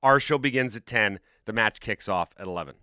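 breathless after a long rundown; out of breath. Real, not acted. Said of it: "Okay, I'm almost out of breath".

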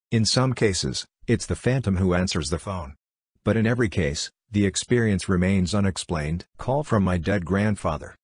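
flat text-to-speech robot voice; synthetic computer narrator voice. Acted.

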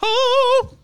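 high, drawn-out announcer. Pretend. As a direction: announce the segment title grandly. Segment title announced.

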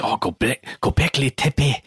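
imitated Swiss-German accent on "Göbekli Tepe"; Erich von Däniken. Co-host imitating a author he can't forget, mock German accent. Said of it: "Von Daniken always says".

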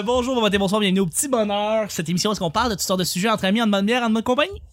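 upbeat show host welcome; radio host intro. Acted.

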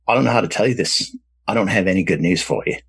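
quick, half-hearted Australian accent imitation; bad Australian accent. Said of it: "I'm gonna do a bad accent here".

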